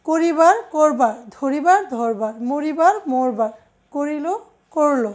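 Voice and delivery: করিবার as "koribar", করবার as "korbar"; first vowel as o. Shown as a demonstration. Teacher pairing formal and colloquial forms, করবার said with o. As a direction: round the first vowel to o in both long and short forms, করিল "korilo", করল "korlo". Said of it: "ওকারের মতো উচ্চারিত হয়".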